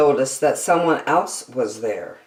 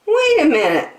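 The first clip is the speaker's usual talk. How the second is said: higher, bright-eyed zebra; 14 semitones higher, 4 dB louder, faster than usual. Acted. Zebra stops the friends, in a high voice. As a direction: pipe up with an idea, pitched high. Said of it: "said Zebra".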